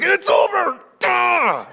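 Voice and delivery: loud, high celebratory outburst; excited yell, not angry. Shown as a demonstration. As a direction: yell it out with sheer end-of-book exhilaration. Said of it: "I'm not angry at you".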